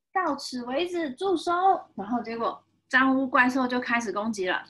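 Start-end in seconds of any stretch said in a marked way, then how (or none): 0.1-1.5 lightly voiced hero, higher pitch; heroic command. Soap hero stops the monster, mild commanding call. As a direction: order the villain to halt, pitched up.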